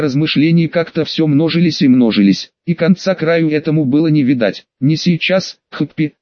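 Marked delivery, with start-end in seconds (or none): none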